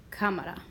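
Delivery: "cámara" as CÁ-ma-ra, settling down; weight on CÁ in "cámara", let it fall; stress on first syllable. Shown as a demonstration. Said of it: "where I hear the stress".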